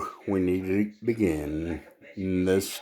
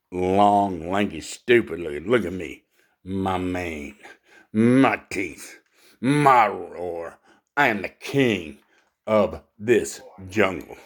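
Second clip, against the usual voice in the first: proud lion. Acted. Lion declaring himself king of the jungle, a hint of pomp. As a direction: draw out each possession like a lion boasting.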